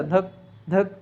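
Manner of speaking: each धक spaced apart with a pause; a slow धक, a gap, then धक; uneven, dragging heartbeat; slow broken heartbeat. Shown as a demonstration. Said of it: "ऐसा नहीं आता".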